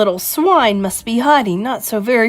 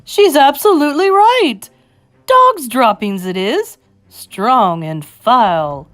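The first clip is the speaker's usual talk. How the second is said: high shout sinking to slow disgust; loud agreement, drawn out at the end; crying out; 6 semitones higher, 6 dB louder, slower than usual. Acted. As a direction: start shrieking, end slow and grave. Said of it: "cried another voice".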